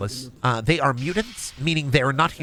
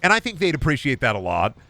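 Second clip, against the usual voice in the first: funny answer. Pretend. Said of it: "The funny answer would be like".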